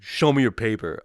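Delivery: mildly barked mock order; imitated border agent. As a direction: imitate a curt official's order. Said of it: "and he was like".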